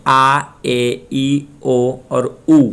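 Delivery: आ, ए, ई, ओ, ऊ as separate pure vowels; Spanish vowel sounds. Shown as a demonstration. Teacher shows Spanish pronunciation, saying आ, ए, ई, ओ, ऊ distinctly. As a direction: sound out आ, ए, ई, ओ, ऊ one by one. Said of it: "Spanish में pronunciation कैसे करते हैं".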